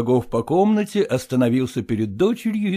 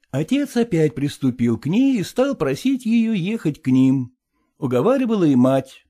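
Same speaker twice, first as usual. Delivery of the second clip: usual speaking voice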